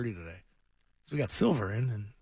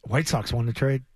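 slow, emphatic hot take; Felger take impression; slower than usual. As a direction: deliver it like a bold radio hot take. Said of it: "I'm doing my Felger take".

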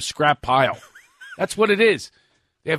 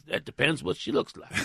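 put-on Texas accent; 3 semitones higher, 7 dB quieter than usual. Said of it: "He says".

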